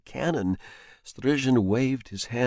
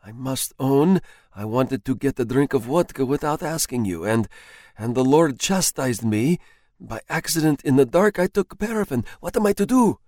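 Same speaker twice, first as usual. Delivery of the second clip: lightly raised voice of a man who thinks he's dying; frightened husband; 4 semitones higher than usual. Acted. Husband confesses to his wife he's drunk paraffin, mildly alarmed. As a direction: tell her of your doom in alarm.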